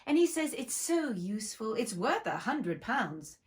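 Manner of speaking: put-on brisk lively girl voice; eager chatter. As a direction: gush about the dog eagerly. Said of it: "so Alice went on eagerly".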